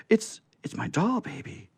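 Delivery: high, breathless joy; delighted cry. A narrator's reading. Betsy recognises her doll, high happy cry. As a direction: squeal it like a thrilled child. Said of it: "she cried".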